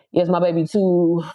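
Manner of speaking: even, measured read-out; reading comment aloud. Real, not acted. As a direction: read a viewer's message off the screen. Reads a viewer's comment aloud.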